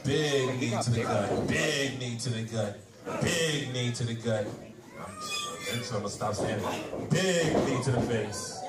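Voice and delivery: excited ringside play-by-play; wrestling commentator. Acted. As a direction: call the match like a wrestling announcer.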